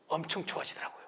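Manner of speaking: soft, hushed confiding; whispered aside. Real, not acted. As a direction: lean in and whisper it.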